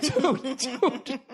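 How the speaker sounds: retold "dude" through suppressed laughter; laughing "dude". Bystander checking on a fallen skater, retold laughing address. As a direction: try to say it while cracking up. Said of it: "Doing that dude while laughing".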